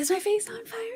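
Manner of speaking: hushed, very soft, very high small voice. Retelling an upset woman's question at the fire challenge, imitating Violetta's soft voice. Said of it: "With her like such soft voice".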